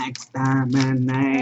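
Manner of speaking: slow, drawn-out hint of a Dalek; lightly voiced Dalek, stretched slow. Answering his friend's Dalek, a lightly voiced slow Dalek. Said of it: "the Daleks".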